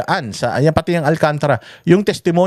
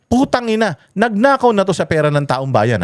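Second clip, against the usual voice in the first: "Putang ina" spat out much higher; angry curse; 6 semitones higher than usual. Real, not acted. Vlogger curses Alcantara's protection deal, high angry outburst. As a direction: burst out in disgust. Cursing the state witness deal.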